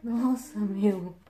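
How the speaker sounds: taken aback, voice up; shocked. Real, not acted. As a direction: exclaim it in loud disbelief. Shocked at what the packet holds.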